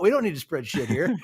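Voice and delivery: punchline through laughter; laughing. Real, not acted. Telling his friends the story's punchline, laughing. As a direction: crack up while saying it.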